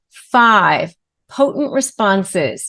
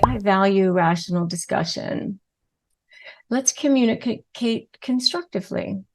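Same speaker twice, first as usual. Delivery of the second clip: soft, even, composed; calm composed reply; 5 dB quieter than usual. Shown as a demonstration. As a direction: say it like you've already exhaled. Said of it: "inhale deeply and calmly and say".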